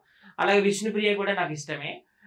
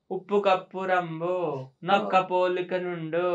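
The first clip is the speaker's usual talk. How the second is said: drawn-out verse recital; slow recitation; slower than usual. Shown as a demonstration. Contestant obliges with a dialogue for everyone, slow verse-like recital. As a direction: recite it slowly, stretching each phrase. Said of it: "ఒక dialogue చెప్పు మా అందరి కోసం".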